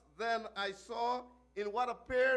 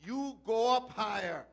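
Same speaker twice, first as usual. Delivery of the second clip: shout. Acted. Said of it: "and shouted".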